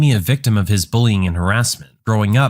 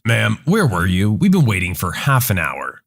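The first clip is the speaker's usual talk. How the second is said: lower, firm bus driver, lightly voiced; a patient driver holding his temper, voiced low; annoyed bus driver; 4 semitones lower than usual. Annoyed bus driver confronts late mom.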